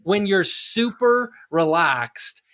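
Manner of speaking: high mocking imitation of a wife; put-on high wife voice. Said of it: "you're doing about your wife".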